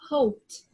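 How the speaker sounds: "hoped" ending in a t sound, "hopt"; teacher says "hoped" as one syllable ending in t; correct pronunciation. Shown as a demonstration. Teacher modelling the correct "hopt" for the class. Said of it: "this way".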